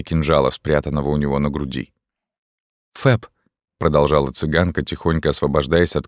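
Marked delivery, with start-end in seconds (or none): 2.9-3.3 put-on girl's voice. Esmeralda voiced higher.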